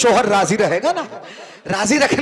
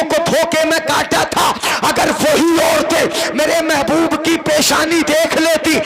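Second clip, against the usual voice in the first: preacher's own style; 2 semitones higher than usual. Acted. Preacher telling Zulekha's story to the crowd, impassioned declamation. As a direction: drive it upward phrase by phrase, ringing and sustained. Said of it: "जरा मैं अपने अंदाज में आता हूं".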